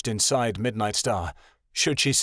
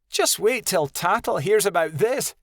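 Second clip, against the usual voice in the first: higher voiced arrogant young wolf; higher, boastful young she-wolf; proud young she-wolf; 9 semitones higher than usual. A narrator's reading. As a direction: play the cocky young wolf.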